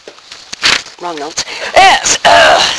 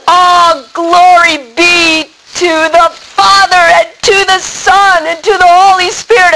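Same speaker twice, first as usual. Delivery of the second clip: elated prayer; 5 semitones higher than usual. Acted. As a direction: sing out the praise like you're floating. Joyful prayer while on retreat.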